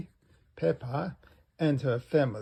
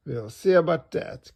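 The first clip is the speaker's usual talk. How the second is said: determined cry; 2 semitones higher, 7 dB louder than usual. Acted. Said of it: "cries Mummy Pig".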